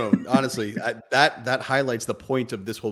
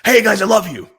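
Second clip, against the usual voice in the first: loud, high, laughing cheer; a big laughing cheer to the family; happy voice; 10 semitones higher, 13 dB louder than usual. Shown as a demonstration. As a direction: beam it out much higher and louder, laughing. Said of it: "that's my happy voice".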